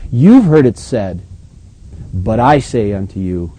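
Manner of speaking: firm, measured declaration, opening slowly; voice of authority. Acted. Preacher quotes Jesus teaching the crowd, with authority. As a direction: lay it down with authority. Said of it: "That's authority".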